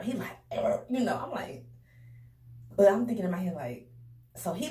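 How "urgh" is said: imitated burp. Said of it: "he do this loud burp".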